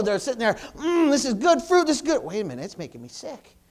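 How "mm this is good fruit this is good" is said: a hammed-up taste of something sweet; savoring voice. People enjoying forbidden fruit.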